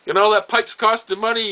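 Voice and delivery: high, loud retold scolding; mock angry scolding. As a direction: imitate a boss yelling at his worker. Old man scolds worker over pipe.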